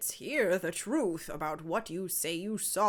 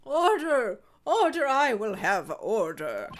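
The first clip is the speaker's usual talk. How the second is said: stern judge; 6 dB louder, slower than usual. Acted. Judge demands order.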